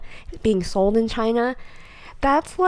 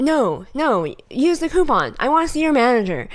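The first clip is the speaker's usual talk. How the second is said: mock anger; 3 semitones higher than usual. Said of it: "pretending to be mad".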